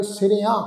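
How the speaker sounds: ਸਿਰਿਆਂ with a nasal final "aan"; nasalised ending. Shown as a demonstration. Teacher explains the bindi, nasal ending on ਸਿਰਿਆਂ. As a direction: let the end of ਸਿਰਿਆਂ resonate in the nose. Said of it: "ਬਿੰਦੀ ਲਗਾ ਕੇ ਉਚਾਰਨ ਕਰਾਂਗੇ".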